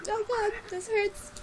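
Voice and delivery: real tears in the voice; crying. Real, not acted. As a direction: talk through genuine tears, hurting. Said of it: "Oh, God, I'm crying. These are tears".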